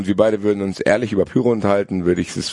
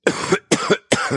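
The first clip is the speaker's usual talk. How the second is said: choking cough. Real, not acted. Just choked on a drink.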